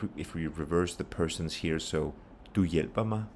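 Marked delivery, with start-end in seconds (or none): 2.5-3.2 "hjælper" stressed, "Du" and "mig" unstressed. Shown as a demonstration. Teacher reversing the persons, stress only on "hjælper". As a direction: keep "Du" and "mig" light around "hjælper". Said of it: "Same thing again".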